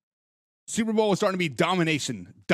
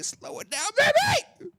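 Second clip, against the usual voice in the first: teasing shout; slower than usual. Retold or imitated. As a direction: tease them to calm down. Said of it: "We'll say".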